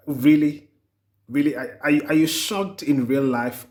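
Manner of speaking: incredulous. Retold or imitated. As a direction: question them as if you can't believe it. Mock disbelief at shocked people.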